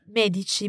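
"Medici" stressed on MÈ, said MEH-dee-chee; stress on first syllable. Shown as a demonstration. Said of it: "the emphasis is on the first syllable".

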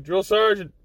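from a polite call to a loud high shout; calling out, building. Retold or imitated. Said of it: "I'm like".

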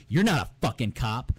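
loud, menacing tough-guy rant; menacing Wahlberg impression. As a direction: threaten him like a bad cop. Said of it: "sitting me down going".

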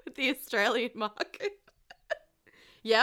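put-on Australian accent. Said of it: "gotten more Australian".

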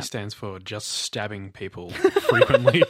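words breaking into laughter; joking through a giggle; laughing while talking. Real, not acted.

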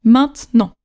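"maintenant" said as maint-nant, two beats; spoken-French "maintenant" in two syllables; two oral syllables. Shown as a demonstration. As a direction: skip the middle e in "maintenant". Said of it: "Deux syllabes".

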